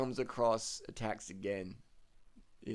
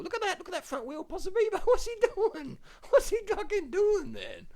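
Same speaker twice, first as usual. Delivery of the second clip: laughing disbelief; 9 dB louder than usual. Real, not acted.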